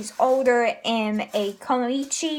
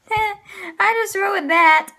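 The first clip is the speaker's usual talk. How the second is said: embarrassed laugh at own slip, higher; 6 semitones higher, 4 dB louder, slower than usual. Real, not acted. Host owns up to spoiling the reveal, laughing. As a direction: say it slowly through a laugh.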